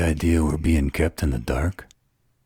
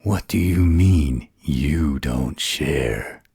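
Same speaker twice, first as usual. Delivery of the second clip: surprised question; 3 dB louder, slower than usual. Acted. Surprised at the claim.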